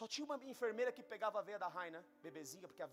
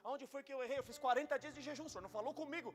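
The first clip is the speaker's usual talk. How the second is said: higher, louder anguished questions; agitated pleading; 7 semitones higher, 5 dB louder than usual. Retold or imitated. Prophet begging God to explain where he is Jonah, higher and urgent. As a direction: demand answers from God, desperate. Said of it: "eu fiquei irritado com Deus".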